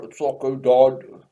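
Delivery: badly faked British accent; clumsy mock-British delivery; Thatcher.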